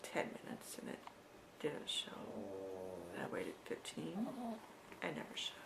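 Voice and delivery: dropped to a near whisper, tense; hushed worry. Real, not acted. Telling how the bus never came, hushed. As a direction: barely voice the wait.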